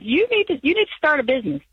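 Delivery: high-pitched nagging impulse, playfully acted; voiced urge. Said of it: "this bug bit me that said".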